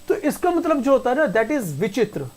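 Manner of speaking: ordinary talk, nothing marked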